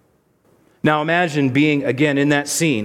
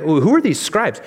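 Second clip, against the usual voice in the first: mock suspicious; 3 semitones higher than usual. Pastor mimicking the congregation's suspicion of the scribes, a teasing mock voice. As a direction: poke fun at the congregation's suspicion. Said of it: "we may be like".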